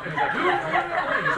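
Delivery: high-pitched words breaking into laughter; laughing. Real, not acted. Laughing while retelling the prank.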